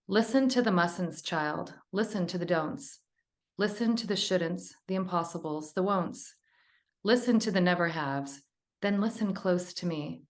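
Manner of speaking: measured, gentle reading aloud of a poem. Shown as a demonstration. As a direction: savour each line of the poem. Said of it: "I'll read it to you".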